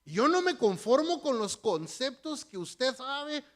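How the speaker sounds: put-on slipping into a slight Spanish accent; a hint of a Spain Spanish accent, unplanned; half Spanish accent. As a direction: acento medio español, sin querer. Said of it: "Se me salió el acento así medio español".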